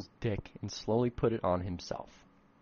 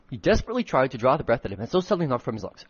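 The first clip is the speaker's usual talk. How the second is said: fast, louder reread of the line; rushed reread; 2 semitones higher, 6 dB louder, faster than usual. Shown as a demonstration. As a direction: hurry through the retake. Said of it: "trying really fucking hard to make the right tone".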